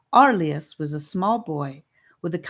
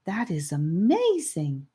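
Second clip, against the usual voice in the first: honeyed voice; slower than usual. Acted. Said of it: "a beautiful voice that sounded like honey".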